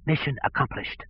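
wet, choking gasp into the radio; gurgling voice. A narrator's reading. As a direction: gasp it out through fluid in the lungs. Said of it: "With a gurgling voice filled with fluid".

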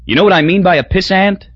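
a boozy businessman needling; drunk Crosby. A narrator's reading. Drunk man at the bar pressing a point, boozy.

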